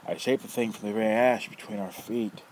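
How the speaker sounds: loud, rough, mocking old man; teasing old rogue. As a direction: toy with the kid, loud and gleeful. Nefer explains golem.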